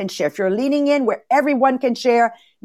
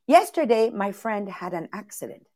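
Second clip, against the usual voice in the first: much softer, throwaway "my friend had an accident"; matter-of-fact; 3 semitones lower, 5 dB quieter than usual. Shown as a demonstration. Teacher shows the same sentence where nothing much happened, quiet and offhand. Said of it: "Same sentence".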